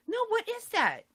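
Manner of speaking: high-pitched demand to know; retold horrified insistence; insistent disbelief. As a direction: push the question, appalled. Presses mother, retold.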